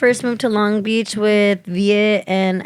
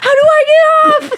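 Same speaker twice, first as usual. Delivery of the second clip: high, louder, wailing imitation of a stuck driver; mock panic; 4 dB louder than usual. Retelling a friend stuck in the roundabout, mock panic. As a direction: wail it like you're trapped circling.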